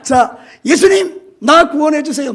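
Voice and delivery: loud, high cry for help; shouted plea. Acted. Preacher as the blind beggar crying to passing Jesus, shouting. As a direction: call out urgently to be saved. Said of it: "소리를 지르는 거예요".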